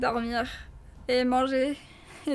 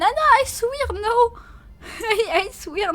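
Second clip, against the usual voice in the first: high, loud protest through laughter; giggling high protest, much louder; laughing denial; 8 semitones higher, 6 dB louder than usual. Real, not acted. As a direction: laugh while swearing it isn't true. Denying being from Sweden.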